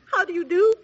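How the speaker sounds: giggling through a greeting; can't stop giggling while speaking; nervous giggles breaking into the words; laughing. Acted. Bride who laughs constantly.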